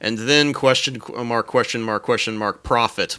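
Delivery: scheming evil plan voice; mad scientist. Retold or imitated. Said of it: "Doctor Adams storms in and is like".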